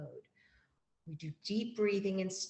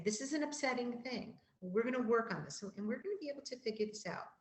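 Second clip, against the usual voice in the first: reassuring; 4 semitones higher, faster than usual. Shown as a demonstration. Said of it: "model coping skills with kids by saying".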